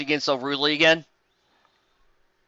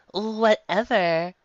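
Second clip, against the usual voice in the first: dismissive; 5 semitones higher, much slower than usual. Acted. Dismissive Kimimitsu.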